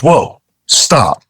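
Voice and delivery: high, sharp "whoa, stop"; sharp rebuke. Retold or imitated. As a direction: stop him short. Captain stopping the insult.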